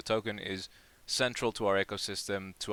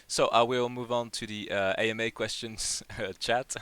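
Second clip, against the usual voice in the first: laughing while talking; amused, laughter slipping out; real suppressed laughter; 3 semitones higher than usual. Real, not acted. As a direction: try to get through it while amused, laugh breaking in. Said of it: "Sorry, I'm laughing".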